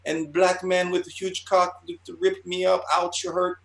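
high put-on voice in broken Asian-accented English; mock Asian accent. Artist continuing his fake letter, mock Asian accent. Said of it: "like, really broken English".

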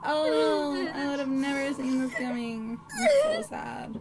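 hammed-up fake sobbing widow; fake crying. Widow fake crying over her dead husband, hammed up. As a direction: overdo the grief so it sounds convincing. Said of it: "Is it convincing?".

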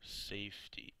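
one whispered word; whispered to self. Real, not acted. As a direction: breathe the word out under your breath. Reading item name quietly.

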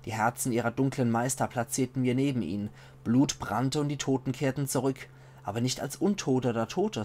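measured, solemn chronicle reading; story narration. A narrator's reading. Player reading a chronicle of the undead plague, measured narration. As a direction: tell it like an old war chronicle. Reads in-game book aloud.

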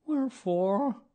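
high, loud mournful character voice; sad thought. A narrator's reading. Gloomy donkey puzzling to himself, sadly. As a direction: raise it into a woeful question. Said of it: "he thought sadly to himself".

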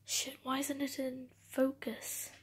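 a passing hint of a British accent; a British accent that comes out by accident; slip into a British accent. Real, not acted. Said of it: "Why did I say that in a British accent?".

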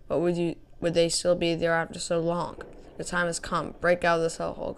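dramatic reading of intro text; story narration. Acted. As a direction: read it like a game intro. Reads the map's intro text.

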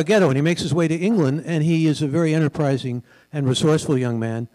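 project: "and he is a very enterprising" pushed out over a weak mic. Real, not acted. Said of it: "are you not hearing me?".

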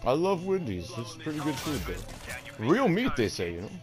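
hammed-up hungry celebrity, won over; Sylvester Stallone. Star talking fast food with his handler, Stallone impression. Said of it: "I can't do this voice no more".

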